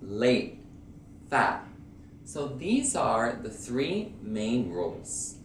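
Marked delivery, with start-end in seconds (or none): 0.0-1.7 late and fat with unreleased T; stop T demo. Shown as a demonstration. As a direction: hold the tongue at the T of "late". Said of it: "you pronounce it like uh".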